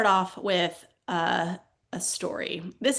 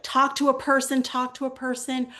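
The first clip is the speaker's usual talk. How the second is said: higher, insistent acted demand; mock aggressive demand; 5 semitones higher, 3 dB louder than usual. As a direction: badger the phone robot, half in jest. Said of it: "more and more aggressively".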